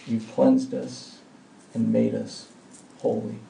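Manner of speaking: earnest pastoral prayer voice; closing prayer. Acted. Pastor praying over the congregation, earnest and reverent.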